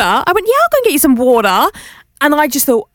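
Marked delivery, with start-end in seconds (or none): 0.5-1.7 mock Australian accent. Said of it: "impersonating and mocking her accent".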